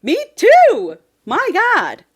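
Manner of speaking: loud, high, emphatic outburst; gushing agreement. Real, not acted. Co-host agrees about loving men who share, gushing. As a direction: agree wholeheartedly, voice leaping up.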